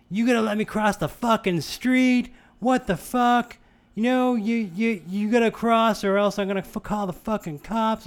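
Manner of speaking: high, loud furious yell at the driver; drunk woman yelling. Retold or imitated. Drunk woman yelling at the rideshare driver, furious and loud. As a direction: shriek it like an angry drunk in the road. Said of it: "And she's like".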